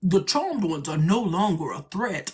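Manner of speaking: slow, drawn-out character voice; imitated show character. Quoting a show character to the Oracle, slow put-on voice. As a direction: stretch it out like a quoted TV villain. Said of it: "He was like".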